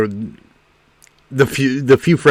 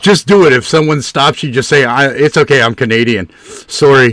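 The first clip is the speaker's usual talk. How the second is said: put-on Canadian accent; 2 semitones higher than usual. Quoting a poet to a stream partner, jokey Canadian accent. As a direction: ham up a polite Canadian. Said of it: "Poet said".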